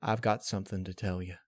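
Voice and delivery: soft and subdued confession; quiet. Acted. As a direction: say it softly, almost to yourself. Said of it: "Quietly, she spoke".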